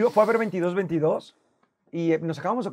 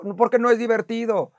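normal talking voice

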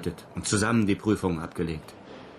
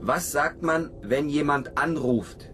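much higher, slow coaxing sing-song; talking to a parrot; 7 semitones higher, slower than usual. Acted. Cosmonaut teaching his parrot to talk, high coaxing voice. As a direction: coax the bird like a toddler.

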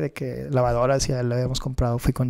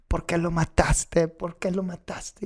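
slow, drawn-out yell held back in volume; mock scream; 3 semitones higher, 4 dB quieter, slower than usual. Friend screaming down the phone over his dead bird, mock scream. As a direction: imitate his wailing scream without the loudness, pitched up. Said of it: "gritándome así".

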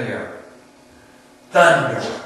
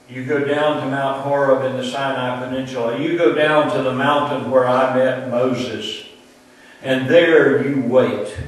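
repeats the order, growing to a loud preached climax; building command; 6 dB louder than usual. Acted. God ordering Elijah to the mountain, rising loud. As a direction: drive it home a bit harder each time.

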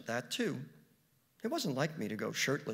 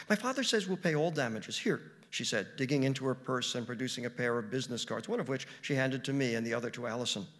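assuring; 2 semitones higher, 5 dB louder than usual. Acted. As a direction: promise eagerly to cover everything. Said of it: "she assured me".

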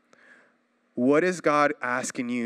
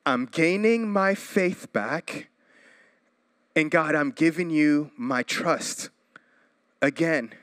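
slower, drawn-out repeat of the prayer. Shown as a demonstration. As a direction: say it again slowly as a vow to God. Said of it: "repeat of prayer line".

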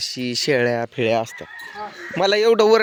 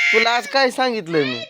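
raised scolding voice, higher and sharp; scolding shout; 6 semitones higher than usual. Real, not acted. Mother scolding her kids about the mobile, raised voice.

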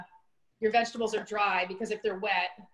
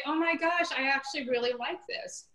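surprised delight; 5 semitones higher than usual. Retold or imitated. Caregiver surprised by tasty broccoli.

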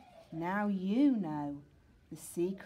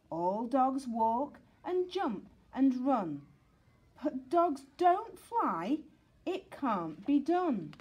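scolding teacher; 5 semitones higher, 4 dB louder than usual. Acted. Teacher lecturing Sid.

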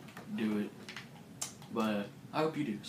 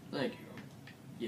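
soft unvoiced thanks; quiet; 6 dB quieter than usual. Real, not acted. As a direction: whisper the thanks back.

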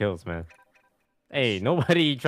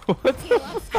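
squeaky high voice. Pretend.

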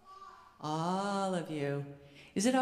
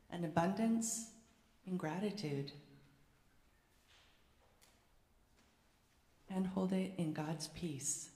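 prayer; 4 dB quieter than usual. Acted. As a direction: lead the congregation in quiet prayer. Leads a prayer.

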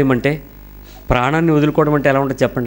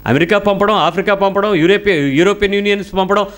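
higher, pressing, sarcastic edge; heated rebuke; 5 semitones higher than usual. Real, not acted. Preacher rebuking parents who send children abroad, heated. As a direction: needle the parents about their goals.

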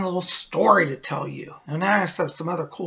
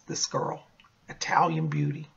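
admiring whisper; 2 semitones lower, 7 dB quieter than usual. Acted. Admiring the Italian beauty.

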